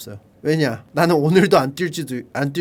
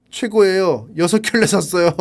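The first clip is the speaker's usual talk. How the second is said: amused review reading. Retold or imitated. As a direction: read a glowing review, breaking into laughter. Reads gushing review, bursts out laughing. (후기 읽다가 웃음 터짐)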